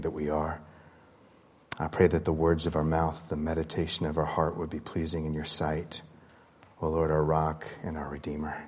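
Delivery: soft, hushed prayer voice. Real, not acted. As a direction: pray quietly and humbly. Opening prayer before sermon.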